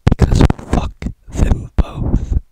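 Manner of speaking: loud, slow, hoarse yell; mock shout. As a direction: bellow the punchline. Punchline shouted at the audience.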